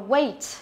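"weight" with a full "ay" glide, falling; teacher's careful "weight", gliding from e to i; correct vowel demo. Shown as a demonstration. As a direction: model "weight" clearly with the long A. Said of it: "Nó là âm A".

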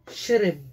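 shrib with the vowel barely sounded; weak vowel demo. Shown as a demonstration. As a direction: say shrib, letting the vowel almost vanish. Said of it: "tenta deixar vogal fraco".

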